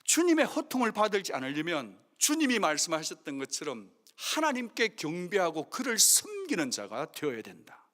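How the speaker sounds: ordinary talk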